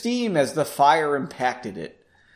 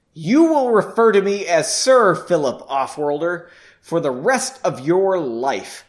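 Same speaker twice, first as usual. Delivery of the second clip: exclaimed; 5 dB louder than usual. Acted. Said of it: "Philip exclaimed".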